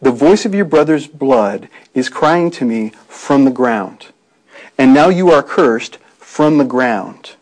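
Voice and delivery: each phrase slowed and leaned on, stress on your and you; solemn, deliberate emphasis on the curse; slow, weighted scripture reading. Shown as a demonstration. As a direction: read it slowly, pressing "your brother's blood" and "you are cursed". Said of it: "notice the, the emphasis here".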